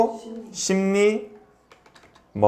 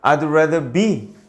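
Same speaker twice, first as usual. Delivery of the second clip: slow model reading; much slower than usual. Shown as a demonstration. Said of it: "teacher models sentences".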